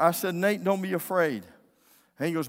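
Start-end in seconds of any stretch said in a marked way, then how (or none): 0.3-1.5 put-on raised, firm order to a child; commanding. Dad orders his frightened son not to fear, raised command. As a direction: say it loudly, as an order. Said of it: "It was a command".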